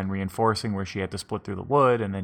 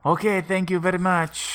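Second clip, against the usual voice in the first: abrupt brush-off; 9 semitones higher, 3 dB louder than usual. Acted. Seer drops act abruptly.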